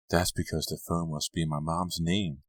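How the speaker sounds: mildly unconvincing excuse. A narrator's reading. Mandy explaining the missing listing to Carrie, unconvincing. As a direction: offer the excuse without much conviction. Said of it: "she said unconvincingly".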